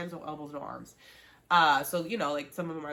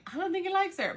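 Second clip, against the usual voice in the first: higher, louder, playful doubt; skeptical doubt; 13 semitones higher, 4 dB louder than usual. Retold or imitated. Viewer doubts Chris likes Tolu, skeptical. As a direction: cast doubt on his feelings. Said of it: "I was kinda like".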